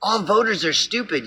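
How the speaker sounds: nod along like a sneaky friend; sly fox agreeing. Retold or imitated. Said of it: "The fox is gonna say".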